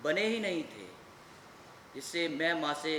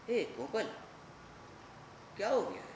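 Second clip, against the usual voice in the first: tender; 2 semitones lower, 8 dB quieter than usual. Acted. Mother comes to soothe her son.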